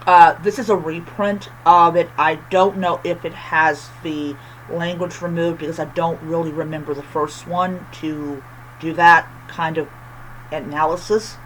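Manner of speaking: lisping on every s. Real, not acted. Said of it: "I'm sorry for my lisp".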